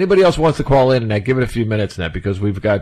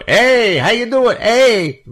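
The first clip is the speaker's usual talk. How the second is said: high, louder mock cheery greeting; imitating Canadians; 13 semitones higher, 4 dB louder, much slower than usual. Mocking Canadian guests greeting everyone, hammed-up cheery voice. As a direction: overplay a chirpy friendly hello. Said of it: "All these Canadians go".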